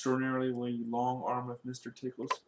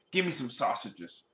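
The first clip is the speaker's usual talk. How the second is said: snapping. Acted. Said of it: "snapped Mister Grumpy".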